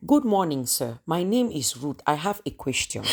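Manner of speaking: put-on thick Cameroonian-accented English, polite classroom question; heavily accented student. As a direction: play the accented newcomer addressing a professor. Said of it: "like you're not speaking English".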